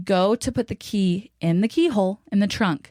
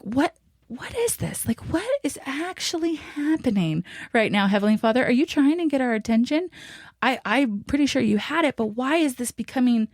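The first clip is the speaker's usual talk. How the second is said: high-pitched exasperated questioning; retold bewildered pleading; 5 semitones higher than usual. Wife retelling her plea to Heavenly Father, exasperated. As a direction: act out baffled questions sent upward, pitch raised.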